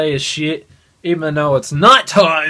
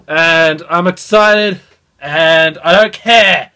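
excited, louder; 4 dB louder, slower than usual. Real, not acted. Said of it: "my voice is kinda just getting louder".

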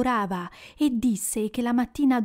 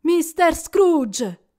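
raised toast; 6 semitones higher, 5 dB louder, much slower than usual. Acted.

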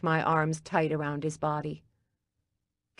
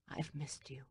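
breathless unvoiced whisper; 2 semitones lower, 17 dB quieter than usual. A narrator's reading. Gordon whispering to Daisy as they embrace, hushed. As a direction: whisper it close into her ear. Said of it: "he whispered".

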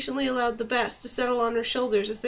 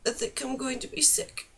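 whispered; 5 dB quieter than usual. A narrator's reading. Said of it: "she whispered".

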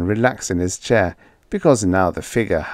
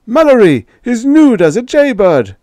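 high loud outraged roar; 10 dB louder than usual. A narrator's reading. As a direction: keep bellowing at Mallory. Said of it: "roared Fendler".

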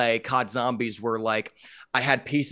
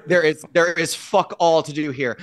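louder, punched repeat; emphatic repeat; 3 semitones higher, 5 dB louder than usual. Real, not acted. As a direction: hammer the complaint home.

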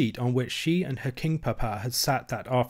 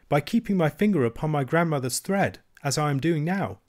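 put-on a girl's voice, pitched higher and patient; lightly voiced princess, a little insistent; a touch of a child explaining something obvious; young princess Irene; 4 semitones higher than usual.

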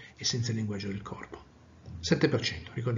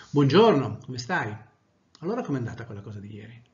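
interested. Shown as a demonstration.

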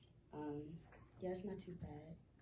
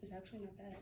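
talking around gum; chewing while speaking; 4 semitones higher, 12 dB quieter than usual. Real, not acted. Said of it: "I got gum in my mouth".

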